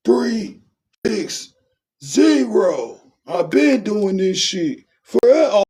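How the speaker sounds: put-on high, slurry drunk bragging. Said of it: "you ain't".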